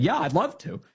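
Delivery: light mock socialist. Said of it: "the socialists are saying".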